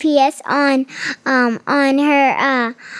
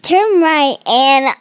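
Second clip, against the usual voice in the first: laughing; 3 semitones higher, 4 dB louder than usual. Pretend. Child mimics GPS, laughing.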